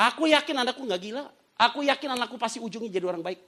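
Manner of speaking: high, emphatic declaration of faith; insistent conviction. Retold or imitated. Father declaring faith in his troubled son, insistent conviction. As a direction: insist on it, pitched well up.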